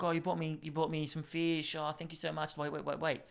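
slightly high, badly faked accent of a shop lady; lightly put-on, muddled Italian-sounding accent; attempted foreign accent. Shop lady thanks her customer for fish, in a lightly faked accent. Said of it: "she sounded kind of Italian then".

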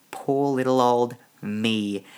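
drawn-out, playful poor-me voice; slow, playfully sorry for yourself; mock self-pity. Host telling listeners they are stuck with him, mock self-pity.

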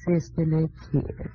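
slow, coy Southern drawl; Southern belle accent. Acted. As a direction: tease the wife with a drawled sisterly kiss. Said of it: "I'll be a visitor from the South".

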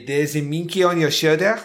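hammed-up Inspector Clouseau French accent; a mild French accent impression, Clouseau style; mock Clouseau French accent. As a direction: lightly send up a faux French accent like Peter Sellers. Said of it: "fucking Peter Sellers Clouseau".

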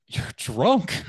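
high, loud blunt accusation; accusing wife voice. Retold or imitated. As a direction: accuse him flatly.

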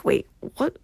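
breathy whispered double take; a hushed, baffled aside; whispered wait what. Retold or imitated. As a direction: drop to a stunned whisper. Confused by TikTok model claim.

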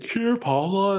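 high mock call to a pet; calling a dog. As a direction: imitate an owner calling the dog, pitched high. Owner calling his dog.

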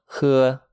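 喝 held high and level; first tone. Shown as a demonstration. Teacher models the word for drink, 喝 high and level. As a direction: say 喝 on a high, even tone. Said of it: "H E in the first tone".

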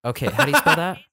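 high, loud snooty clerk; catty. Retold or imitated. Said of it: "that's what that sounds like to me".

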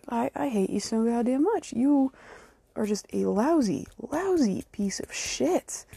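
lousy dragged out in disgust; angry insult. Real, not acted. Angry rant at Trump.

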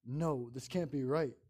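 panicked. Acted. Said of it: "I started to panic".

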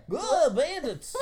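high, loud, slow alarmed cry; high, loud mock panic, laughing; panicked merchant. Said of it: "quote repeated".

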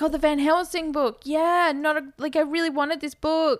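mock excitement over a new present; excited kid. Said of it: "he's so excited".

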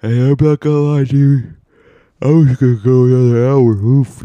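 loud, high-pitched exclamation; loud high outburst. Real, not acted. Confessing to listeners about nearly napping longer, high loud outburst. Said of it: "you heard that, right?".

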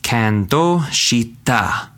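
kando shita said slowly and clearly; slow demo. Shown as a demonstration. Teacher modeling the phrase for learners, slow. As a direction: spell out kando shita, syllable by syllable. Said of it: "So if I wanted to say I was moved".

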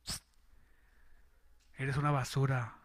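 low, soft, slow tempting voice; sly devilish murmur; devil's whisper. Acted. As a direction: hiss it like the devil in your ear. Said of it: "el diablo ... le dice".

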